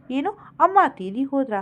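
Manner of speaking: shocked disbelief. Acted. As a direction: gasp it out in disbelief.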